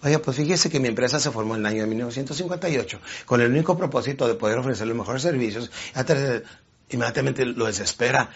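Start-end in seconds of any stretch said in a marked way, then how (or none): 0.0-5.7 a hint of a slow, unhurried salesman, softer; slow calm salesman. Salesman droning on to an impatient client, mildly slow and soft. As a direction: lightly play the plodding talker who drags it out. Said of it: "llega una persona lenta, tranquila".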